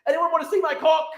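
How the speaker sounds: lightly hammed-up show-off; Hassan impression. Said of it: "just Hassan just like".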